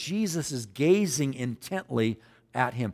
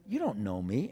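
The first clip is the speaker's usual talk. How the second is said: low, scoffing retort with a rising end; sarcastic challenge; 5 semitones lower, 4 dB quieter than usual. Acted. Answering somebody who walks up, sarcastic. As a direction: brush him off, dropped low. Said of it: "Somebody walks up and says".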